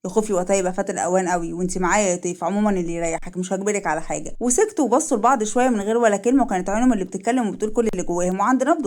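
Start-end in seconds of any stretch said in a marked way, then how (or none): 0.0-4.4 low, subdued man's voice; lightly voiced resigned man. Man giving up pressing the woman, low and resigned.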